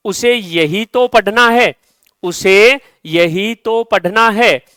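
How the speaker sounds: यही तो said slowly and leaned on; slow, deliberate यही तो; stress on यही. Shown as a demonstration. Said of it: "किसी विषय विशेष पर जोर देने के लिए". (यही पर ज़ोर)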